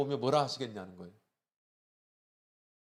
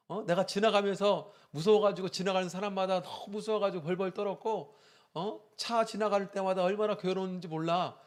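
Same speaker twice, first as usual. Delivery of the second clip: put-on higher, whining child's voice pleading with mom; child's complaint; 6 semitones higher than usual. Child telling mom how scared she was, higher whiny voice. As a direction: voice the scared kid protesting to mom.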